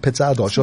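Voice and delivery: PIZZA with an "eh", as "petsa"; former dialect pronunciation. Shown as a demonstration. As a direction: say Pizza Dolce as "petsa dolcha". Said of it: "I used to call it".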